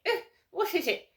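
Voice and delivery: a lightly voiced disdainful royal; Camilla impression. Mocking snobs, a touch of posh royal disgust. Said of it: "It's a bit like Camilla".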